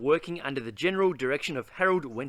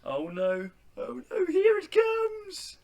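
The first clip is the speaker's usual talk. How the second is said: mock dread; 11 semitones higher than usual. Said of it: "makes silly sounds like".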